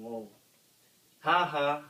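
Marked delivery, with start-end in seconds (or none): 1.2-1.8 loud gloating laugh; mock laugh. A narrator's reading. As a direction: laugh it out with glee. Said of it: "Grouch laughed".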